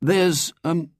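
put-on hesitant try at the friends' accent; adopted street accent. A narrator's reading. William copying his new friends' accent, tentatively. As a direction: put on their working-class accent, searching for the word. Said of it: "deliberately adopting the accent of his new friends".

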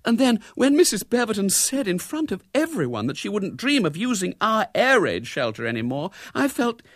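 high, plaintive retelling; high-pitched lament; moaning distress. A narrator's reading. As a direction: pour out the woe as a wounded wife. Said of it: "moaned Missus Brown".

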